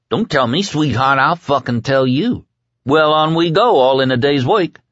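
put-on cocky Kid. A narrator's reading. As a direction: talk down to him with swagger.

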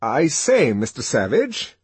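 propitiating. A narrator's reading. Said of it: "smiling propitiatingly".

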